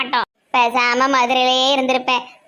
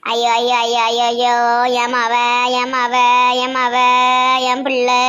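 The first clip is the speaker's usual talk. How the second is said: wailing lament; 4 dB louder than usual. Acted. Grandmother wails, daughter in coma.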